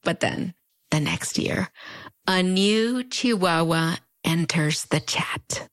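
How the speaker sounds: slow, teasing announcement; slow reveal. Real, not acted. Introducing the next famous chihuahua, a slow teasing reveal. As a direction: draw it out for suspense.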